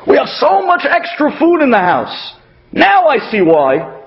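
excited. Retold or imitated. Excited neighbor quoted.

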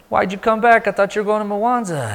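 high-pitched puzzled questioning; surprised. Retold or imitated. Friend finds the traveler back in town, surprised.

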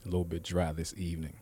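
dry mouth after a sip; while sipping a drink. Real, not acted. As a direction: speak just after drinking. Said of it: "Excuse me, I'm drinking water".

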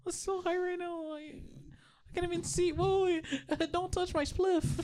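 high, giggly stoned voice; stoner voice. Pretend. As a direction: act baked and giddy. Acting high on Gorilla Glue.

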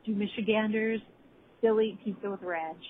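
playful reporter sign-off, live from Flint; hammed-up field reporter voice; mock news report. Friend playing reporter for a call-in segment, mock news voice. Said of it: "here I am live, reporting".

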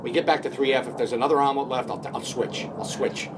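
lightly imitated actor agonizing aloud; mock dithering, talking yourself in and out of it; Vince Vaughn. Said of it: "It's that Vince, Vince Vaughn voice".

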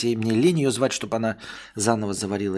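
ordinary talk

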